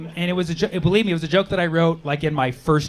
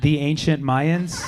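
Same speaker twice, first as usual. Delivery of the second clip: slow, puzzled question; drawn-out baffled disbelief; confused; 2 semitones lower, much slower than usual. Retold or imitated. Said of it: "I was like".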